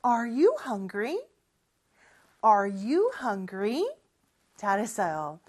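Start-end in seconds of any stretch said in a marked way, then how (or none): 0.0-3.8 slow repeat-after-me. Shown as a demonstration. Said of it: "우리 같이 큰 목소리로 해볼까요".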